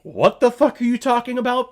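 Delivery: high, loud, incredulous outburst; screaming at the TV. Retold or imitated. Viewer yelling back at the movie, incredulous scream. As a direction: yell it in baffled disbelief. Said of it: "screaming at the T V".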